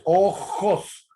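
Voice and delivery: "ojos" drawn out, guttural j, clear final s; slow highland ojos. Shown as a demonstration. Teacher slowly repeats the highland ojos for the class. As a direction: stretch "ojos" slowly, j from the throat. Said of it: "la J o la G".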